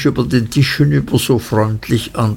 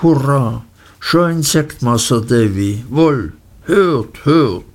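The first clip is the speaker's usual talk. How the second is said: put-on rustic fisherman boy crowing with delight; delighted shout; 2 semitones higher than usual. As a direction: call it out, thrilled to bits. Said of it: "schrie Ham entzückt".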